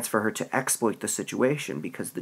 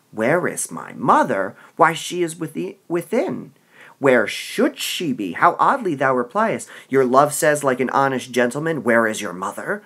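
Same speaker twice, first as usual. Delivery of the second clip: louder, mocking Juliet; exasperated Juliet; 5 dB louder than usual. Juliet mocks the nurse's dodge, exasperated. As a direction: throw the nurse's words back at her.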